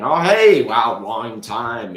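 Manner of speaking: put-on light up at hearing an old friend; excited greeting. Ricky answering a call from an old friend, excited.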